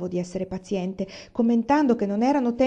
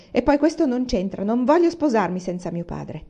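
1 whining refusal; 2 semitones higher, 3 dB louder than usual. Acted. Daughter tearful refusal.

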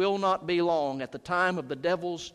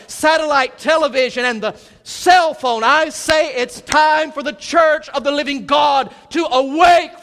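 loud, high, urgent pulpit preaching, slowing to shouts; preaching at full force; 8 semitones higher, 12 dB louder than usual. Acted. Preacher calling the church to awake, full-force preaching. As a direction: rouse the sleeping church from the pulpit.

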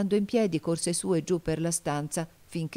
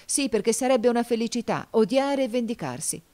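fierce; 7 semitones higher, 5 dB louder than usual. A narrator's reading. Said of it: "esclamò fieramente".

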